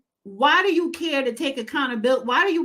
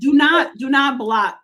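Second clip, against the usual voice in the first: shouted warning; 5 dB louder, slower than usual. Real, not acted. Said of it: "telling co-host not to block".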